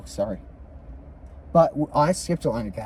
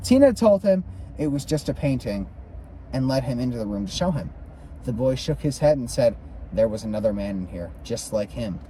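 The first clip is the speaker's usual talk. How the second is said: measured, lilting read-aloud; story narration; 4 semitones higher, 3 dB louder than usual. A narrator's reading. Reader tells of the Hale house tour, story narration. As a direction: narrate the ghost tour from the book.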